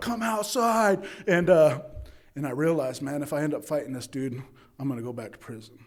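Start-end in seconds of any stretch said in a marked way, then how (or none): 0.0-1.0 acted-out, full-on high hollering. Recalling calling out a guy from treatment to fight, retelling a yell. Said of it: "I'm yelling".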